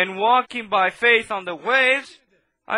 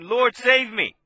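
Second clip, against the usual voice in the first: louder, higher cry for help; louder plea; 4 semitones higher, 3 dB louder, slower than usual. Retold or imitated. Preacher voicing Peter crying to the Lord, louder plea. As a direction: call out to be saved. He cried to him and said.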